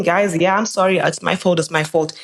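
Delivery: calm, even apology, settling at the end. Retold or imitated. Girlfriend on the curb apologizing to his friends, calm. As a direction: keep it level and unbothered. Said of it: "speaking calmly, calmly saying".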